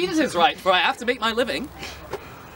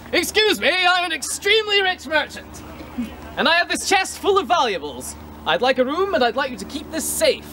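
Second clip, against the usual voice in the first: higher, self-important rich merchant; pompous merchant; 6 semitones higher than usual. Acted. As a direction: announce your wealth proudly.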